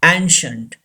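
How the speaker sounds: ancient as "AN-shunt", two syllables. Shown as a demonstration. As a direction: say ancient with a simple "sh" in the middle. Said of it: "C I gives the sound sh".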